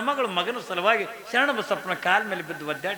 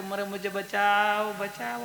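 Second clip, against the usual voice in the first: slow, drawn-out mock plea for rescue in Hindi; crying for help; much slower than usual. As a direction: wail save me, stretched out. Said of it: "ಅತ್ತು". (ನಿಧಾನವಾಗಿ ಅಳುತ್ತ ಕಾಪಾಡಿ ಎಂದು ಬೇಡುವುದು)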